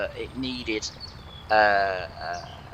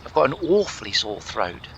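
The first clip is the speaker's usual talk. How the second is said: put-on plummy royal English accent, repeating the line; hammed-up King Charles impression; mock Prince Charles; 3 dB louder than usual. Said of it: "I've turned into Prince Charles".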